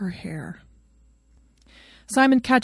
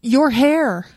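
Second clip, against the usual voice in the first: pleading; 5 semitones higher, 7 dB louder than usual. A narrator's reading. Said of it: "he pleads".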